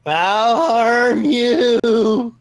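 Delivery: slow, high, menacing threat; menacing villain. Acted. Menacing line while gaming.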